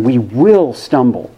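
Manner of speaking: "will" leaned on, slow and falling; stress on "we will stumble". Shown as a demonstration. Minister stressing "will" to the congregation, slow and firm. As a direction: lean hard on "will" in "we will stumble". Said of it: "I almost always really put the emphasis on".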